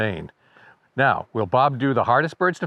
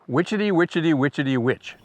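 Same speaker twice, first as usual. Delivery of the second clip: rhythmic chant of the yellowthroat's call; lilting bird-call imitation; birdsong mnemonic. Shown as a demonstration. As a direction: rattle off the bird's song in even beats. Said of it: "an easy to remember song".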